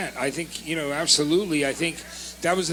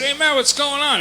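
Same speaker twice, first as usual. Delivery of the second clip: excited greeting; 8 semitones higher, 4 dB louder than usual. Retold or imitated. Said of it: "they said".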